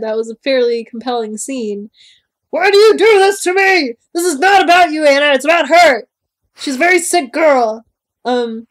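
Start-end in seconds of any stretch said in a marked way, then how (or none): 2.5-7.8 loud, higher exasperated outburst; mock angry rant; angry Christian.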